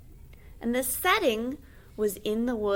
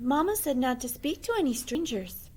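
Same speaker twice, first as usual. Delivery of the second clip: put-on a slightly raised girlish voice; light little girl voice; 5 semitones higher than usual. Red Riding Hood speaks.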